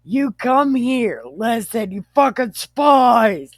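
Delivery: high, loud mock tirade; heated accusation. Joe berating his brothers as spies, heated. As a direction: lay into them, playing it up.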